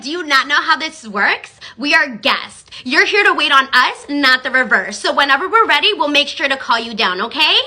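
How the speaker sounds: slow, haughty lecture; snooty guest scolding staff; condescending mock. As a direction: talk down to the waitress slowly. Snooty customers lecture the server.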